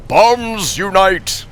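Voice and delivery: laughing. Acted. Streamer rereading a sub name to chat, laughing. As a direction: crack up while repeating the name.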